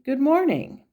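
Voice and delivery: bright, sing-song "Good morning" lifted high; very cheerful greeting. Retold or imitated. Nurse greeting patients in the hallway, imitated with high cheer. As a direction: greet like the happiest nurse on the ward. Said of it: "says very cheerfully".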